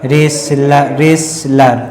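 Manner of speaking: "रेसलर" split as res-lar, no t; "रेसलर" with a small break after s; syllable by syllable. Shown as a demonstration. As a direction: say "रेसलर" twice in separated syllables. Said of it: "इसे रेसलर".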